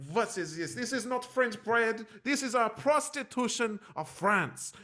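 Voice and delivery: high, indignant and slow, a mock rant about the bread; hammed-up fury over a sandwich; outraged French woman. To the waiter, an imitated French woman in an outraged rant. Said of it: "she was like".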